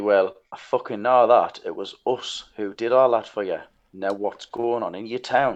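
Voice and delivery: really menacing, threatening, intimidating tone. Confronting a town official in character: menacing. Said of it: "And I say really menacingly".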